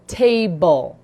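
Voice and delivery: butterfly drawn out syllable by syllable; slow syllables. Shown as a demonstration. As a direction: stretch out "Butterfly" slowly.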